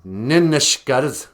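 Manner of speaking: Ninishkadas with a long held n; Ojibwe word. Shown as a demonstration. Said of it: "say through clenched teeth".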